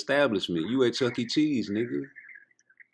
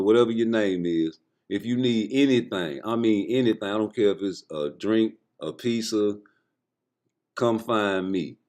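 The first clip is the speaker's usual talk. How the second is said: smooth greeting; 2 semitones lower than usual. Acted. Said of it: "This is exactly what you say".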